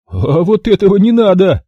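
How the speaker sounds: loud, high mock-reproach; reproachful. A narrator's reading. Maximilian reproaches the guard reaching for his gun. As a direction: tut at him while choking him. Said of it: "укоризненно заметил Максимилиан".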